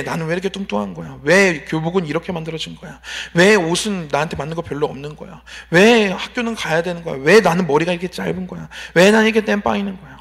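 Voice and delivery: string of mildly peevish whys; retold grumbling. Middle-schooler listing grievances to himself, mild grumble. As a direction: reel off complaints, hitting each "why". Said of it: "불평만 늘어났던 것 같아요".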